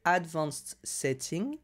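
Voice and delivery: slow English with a French accent; accent anglais approximatif. Real, not acted. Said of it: "avec mon super accent anglais". (anglais lent avec accent français)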